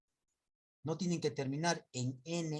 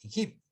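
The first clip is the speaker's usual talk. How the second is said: Egipto said a bit louder with a rise, stress on gip; stress demo; 5 dB louder than usual. Shown as a demonstration. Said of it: "La mayor fuerza de voz es".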